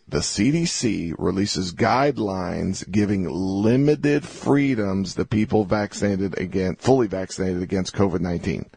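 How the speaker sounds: slow, deliberate reread of the headline; slow reading. Shown as a demonstration. Host rereads CNN headline to listeners, slow and deliberate. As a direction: read every word slowly so listeners catch it. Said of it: "let me read this again slowly".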